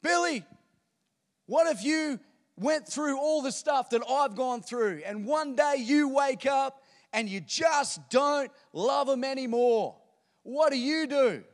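high, loud, slow angry challenge; a crowd member shouts his grievance at Billy Graham; indignant yell. Retold or imitated. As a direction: heckle the preacher from the crowd. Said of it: "indignant, angry, all right, and yells out".

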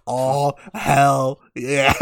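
drawn-out, slow cheer; slow, savored whoop of approval; hyped reaction. Retold or imitated. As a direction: stretch it right out, relishing it. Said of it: "I was like".

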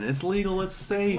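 high, soft singsong reassurance; high-voiced joking reassurance; mock reassurance. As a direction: pitch it up high, playfully insisting all is fine. Mock reassurance, escalating between friends.

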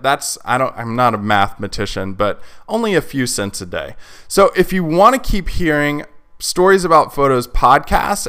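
lively host pitch to listeners; podcast sponsor read. Real, not acted. Host asking listeners to back the podcast on Patreon, upbeat ad read. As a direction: make a friendly appeal for listener support.

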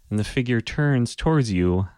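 usual speaking voice

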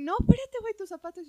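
high, loud call after him; mock calling out to stop someone; retold shout. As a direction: roommate yelling about his shoes. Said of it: "y Moni".

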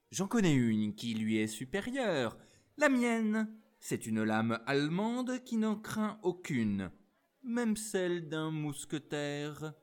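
the rival officer, provoking; arrogant challenge. Acted. Officer escalates the quarrel.

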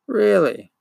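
high-pitched, mock-surprised question; affected surprise. A narrator's reading. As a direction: feign surprise, pitching it well up. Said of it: "in affected surprise".

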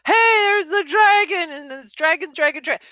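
high, loud, overly obvious pointing-out; exaggerated high showy announcer; mock blatant announcing. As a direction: parody a heavy-handed narrator. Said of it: "she is not blatant about".

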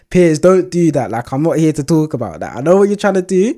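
acting out an emphatic refusal; exasperated protest. Acting out rapper refusing interviewer's questioning.

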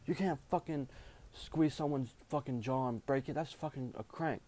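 lightly acted screaming coach; retold coach screaming. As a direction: imitate an irate coach, keeping the volume down. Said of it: "coach is screaming at me".

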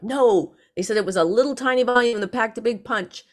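mildly annoyed retort. Retold or imitated. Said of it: "she got mad".

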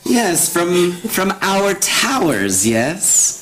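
lightly voiced cackling hag; cackle, then speak as an old hag; Putricia hag cackle. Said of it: "gotta do a hag voice".

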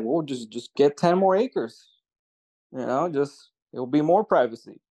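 tossed-off, half-joking suggestion; kinda joking. Retold or imitated. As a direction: float it lightly, as if kidding. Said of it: "we said that kinda jokingly".

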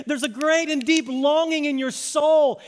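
slow, high, impassioned call. Acted. Jesus to a searching crowd, calling out slowly. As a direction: proclaim it slowly over a crowd. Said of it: "He's calling out to them saying".

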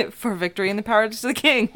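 toast through giggles; giggling cheer; laughing toast. Acted. Player echoes toast laughing.

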